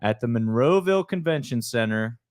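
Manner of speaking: monster truck voice. Acted. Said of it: "need my monster truck voice".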